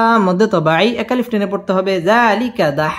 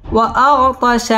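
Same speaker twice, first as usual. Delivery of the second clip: recited; 3 semitones higher, much slower than usual. Shown as a demonstration. Teacher turns the spelled word into recitation. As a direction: stretch وأغطش into recitation tune. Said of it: "word repeated as recited".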